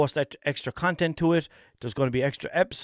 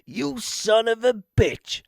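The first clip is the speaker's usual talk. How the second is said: high, slow mock outrage; angry hoodie voice; 8 semitones higher, slower than usual. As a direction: spit it out like a betrayed hoodie. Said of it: "the hoodie was like".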